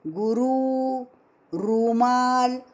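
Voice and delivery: गुरु said like रुमाल with a long ru; रु दीर्घ जैसे रुमाल; long ru compared. Shown as a demonstration. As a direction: stretch the रु as in रुमाल. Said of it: "ऐसे नहीं बोलते".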